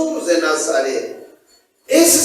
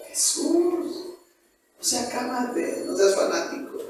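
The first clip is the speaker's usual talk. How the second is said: soft, scoffing brush-off; dismissive friend; 11 dB quieter than usual. Acted. Friend brushing off the believer, soft and dismissive. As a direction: wave off the fanatic, quietly mocking.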